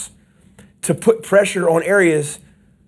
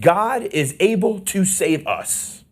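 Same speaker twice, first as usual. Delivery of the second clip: 1 slow declaration; 2 semitones higher, much slower than usual. Retold or imitated. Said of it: "They said that as a declaration".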